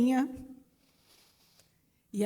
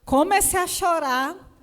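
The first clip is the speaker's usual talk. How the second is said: retold crying; 5 semitones higher, 6 dB louder, slower than usual. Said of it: "eu tava chorando dentro do carro".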